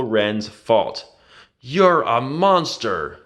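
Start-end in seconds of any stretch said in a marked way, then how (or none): 1.6-3.2 slow, higher accusing voice; Rey hurling the word at her enemy; yelled. A narrator's reading. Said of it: "Rey yelled at him".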